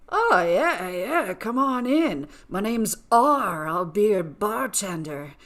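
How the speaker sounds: slow, seedy barkeep welcome; seedy bartender. Acted. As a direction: play a slow-talking dive-bar bartender. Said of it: "It was just a nasty bar. And the bartender was like".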